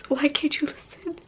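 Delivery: breathy whispered why; whispered plea. Real, not acted. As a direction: whisper it in despair. Pleading with dog, whispered.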